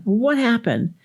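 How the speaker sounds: high, demanding parent's question; mock cross parent wanting an explanation; scolding question, pitch jumping up; yelling parent. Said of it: "the parent is yelling at the child".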